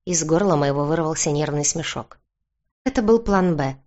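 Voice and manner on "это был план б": higher, livelier reply with a sly smile; playful admission through a sly grin. A narrator's reading. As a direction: lift it lightly, a little cunning. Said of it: "ответил мне хитрой улыбочкой Бьорн".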